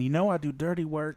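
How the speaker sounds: low sultry "You know I do dirty work" with a breath at the end; husky come-on, breathe out at the end; sultry line ending in a breath. Retold or imitated. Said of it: "she even hit that breath at the end".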